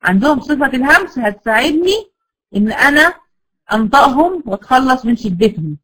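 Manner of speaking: normal talking voice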